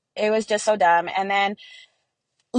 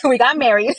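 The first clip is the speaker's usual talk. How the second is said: laughing; 4 semitones higher, 6 dB louder than usual. Real, not acted. Laughing about finally marrying.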